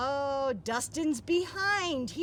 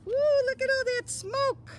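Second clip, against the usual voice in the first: fast, high and louder wow; excited; 11 semitones higher, 6 dB louder, faster than usual. Acted. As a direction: cheer at the smoke cloud. Reader reacts to the picture.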